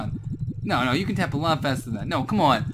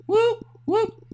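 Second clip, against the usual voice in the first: high, loud whooping siren; 6 dB louder than usual. Pretend. Imitates siren sound.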